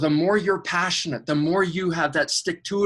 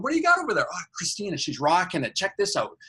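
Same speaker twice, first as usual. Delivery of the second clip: excited angel; 2 semitones higher, faster than usual. Retold or imitated. Other angel voiced, pitch jump.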